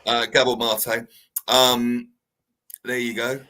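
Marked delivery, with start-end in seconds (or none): 0.3-1.1 Mate in two syllables, mah-tay; corrected pronunciation. Shown as a demonstration. Giving the co-host the name properly, Mate as mah-tay. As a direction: say Gabor Mate slowly, ending mah-tay. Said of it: "It's got an acute accent".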